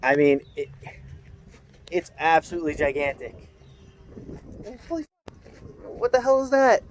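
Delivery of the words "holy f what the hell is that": amazed under the breath. Real, not acted. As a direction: gasp at the sight of it. Sees giant truck up close.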